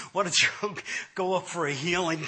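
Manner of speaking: imitating himself laughing through the question; retold laughing. Husband ribbing wife about healing, laughing. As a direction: tease through a mock laugh. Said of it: "I was laughing".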